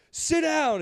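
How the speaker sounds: high mock stern order; imitated mom. Mom ordering her son, high mock voice. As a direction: play the angry mom. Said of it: "she was like".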